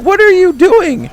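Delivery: very high, loud mock shriek; imitated freaking out. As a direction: imitate a man yelling in alarm, drawn out. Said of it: "He's, like, freaking out".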